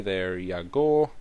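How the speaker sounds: slow, drawn-out mock Scottish-Irish accent; a muddled half-Scottish, half-Irish lilt, dragged out slowly; weird Scottish-Irish accent. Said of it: "a mix of Scottish and Irish and stupid".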